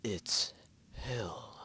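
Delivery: despairing. Acted. Twilight despairing.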